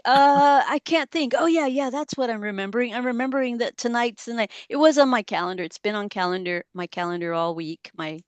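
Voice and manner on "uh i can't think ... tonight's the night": higher-pitched act of blanking, then recalling; mock sudden remembering. Acting out own memory lapse to the group, mock sudden remembering. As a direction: play groping for a thought, then it clicks. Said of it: "I'm like".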